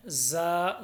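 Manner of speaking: ज़ा with a firm buzzing z; slightly hard. Shown as a demonstration. Teacher contrasts it with zaal, firm ज़ा. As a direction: press lightly on the z of ज़ा. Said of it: "थोड़ा सा सख्ती के साथ पढ़ना है".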